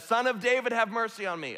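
high, insistent call held up through the plea. Retold or imitated. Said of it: "he cries out even more loudly".

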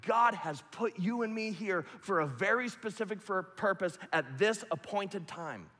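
high, loud, confident proclamation; bold declaration. Acted. Pastor voicing the believer's morning confession, loud and proud. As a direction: declare it over yourself with conviction. Declaring identity affirmations aloud.

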